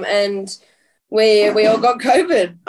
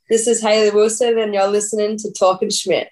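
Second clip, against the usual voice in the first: put-on Australian accent; 3 semitones lower than usual. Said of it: "Give it your thickest Australian accent".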